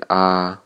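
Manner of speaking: "啊" sounded as an open ah vowel; 音标读音. Shown as a demonstration. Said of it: "第二个a字母上标记啊". (把 "啊" 读成开口元音)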